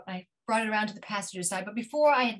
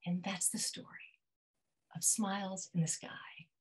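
whispered; 3 semitones lower, 7 dB quieter than usual. A narrator's reading. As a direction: breathe the last words tenderly. Tender closing of love story.

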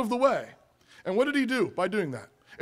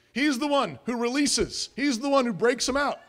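ordinary delivery

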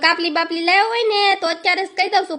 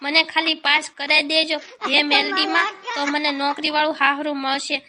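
pleading prayer; 3 semitones lower than usual. Acted. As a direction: beg the mother goddess to pass you. Praying to goddess before exam.

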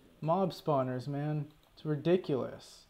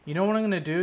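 louder, higher, stress on what; fed-up challenge; 4 semitones higher, 5 dB louder, much faster than usual. Real, not acted. Fed-up gamer announces a new plan, louder fed-up challenge. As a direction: throw down the threat. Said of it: "I've had enough of this shit".

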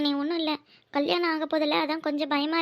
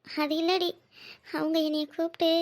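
halting, hesitant confession with long pauses; subdued, faltering speech; swallowing the words; 2 semitones lower, 4 dB quieter than usual. Acted. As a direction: break off mid-sentence, struggling to get it out. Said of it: "எதுக்கு அப்படி முழுங்குற".

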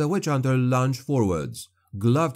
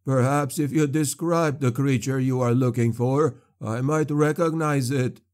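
fawning sorcerer; 3 semitones higher than usual. Acted. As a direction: wheedle to win your freedom. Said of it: "fawning, and eager to please".

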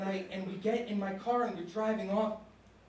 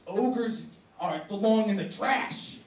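dad's curt dismissal, getting louder; dad refusing, rising to a louder bark; angry dad; 4 dB louder than usual. Acted. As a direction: snap back as the dad. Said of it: "And my dad's like".

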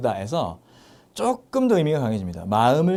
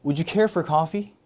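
slow model sentence; 3 semitones higher, much slower than usual. Shown as a demonstration. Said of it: "그래서 그 부분은".

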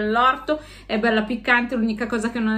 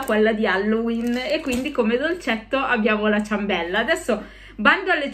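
speaking behind mesh mask; through a face mask. Real, not acted. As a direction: mouth covered by fabric. Seen 2: Skull mesh mask covers the whole face and mouth throughout; no mask in R frames.

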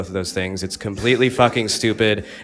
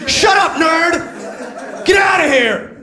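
monster truck ad; 4 dB louder, much slower than usual. Retold or imitated. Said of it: "that guy who does monster truck ads".

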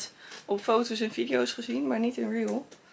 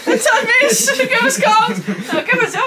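laughing; 13 semitones higher, 9 dB louder than usual. Real, not acted. Laughing at thermometer reading.

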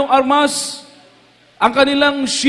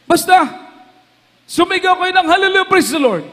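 retold command; 5 semitones higher than usual. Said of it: "Ang sabi ng mga sundalo".

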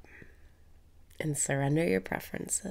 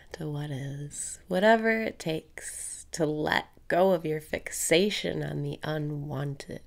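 guided meditation; 3 dB louder than usual. Acted. Meditation host guiding listeners through breathing, calm steady cues.

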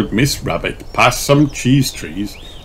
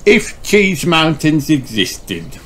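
high, slow cheerful hostess; Miss Rabbit voice; 8 semitones higher, slower than usual. Acted. Miss Rabbit welcomes the party, cheerful guide voice. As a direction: greet them like a bubbly guide.

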